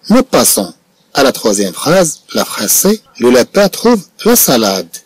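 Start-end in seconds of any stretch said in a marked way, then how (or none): 3.2-4.9 slow dictation. Shown as a demonstration.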